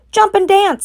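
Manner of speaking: very high crowing call; rooster voice. A narrator's reading. Rooster calling to Wilbur. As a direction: crow the order. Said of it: "said the rooster".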